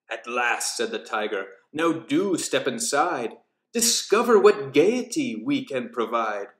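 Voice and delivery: understated cunning host. Acted. Tiger welcomes guests into lair.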